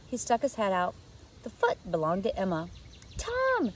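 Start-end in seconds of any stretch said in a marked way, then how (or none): 3.2-3.7 sharp high surprised gasp of a name; little girl startled, much higher. A narrator's reading. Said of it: "she gasped".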